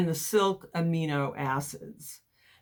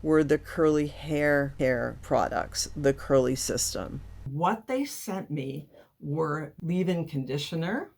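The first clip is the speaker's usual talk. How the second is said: lisping, like cotton in the mouth; slight lisp. Real, not acted. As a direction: talk with a light lisp from a mouth appliance. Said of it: "I'm kinda lisping here".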